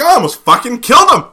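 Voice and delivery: high, loud, laughing as he voices Steve; mock outraged yell. Teller voicing Steve after the fake robbery, laughing loud outrage. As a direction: blurt it out half laughing, half furious.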